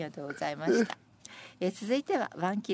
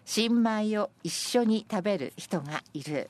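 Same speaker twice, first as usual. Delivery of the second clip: measured verse reading; senryu recitation; slower than usual. Acted. Presenter reading senryu about sharing new rice, measured recitation. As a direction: let the poem unfold phrase by phrase.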